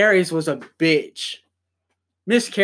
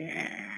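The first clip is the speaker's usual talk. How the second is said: small strained crying grunt; imitating a crying face noise; mock pained grunt; 7 semitones lower, 16 dB quieter than usual. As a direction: squeeze out a soft pained "eh". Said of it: "a face that goes like".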